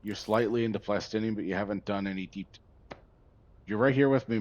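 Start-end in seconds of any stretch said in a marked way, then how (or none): 3.7-4.4 louder, higher, with emphasis on here; emphatic. Real, not acted. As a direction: stress here with excitement. Emphatic to Mary.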